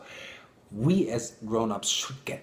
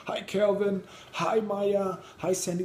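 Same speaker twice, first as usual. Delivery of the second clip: put-on higher, sing-song little girl hellos; cheerful child greeting; 8 semitones higher than usual. The little girl greets each grown-up by name from her bike, higher and chirpy. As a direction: call the names out brightly like a kid riding past.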